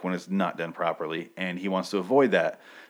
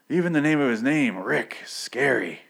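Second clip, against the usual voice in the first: mock scared prisoner; 5 semitones higher than usual. Prisoner voiced in recap.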